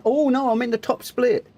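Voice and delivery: high, alarmed oh no; sudden realisation, voice jumps up; dismayed surprise. Real, not acted. Realises he is in top split.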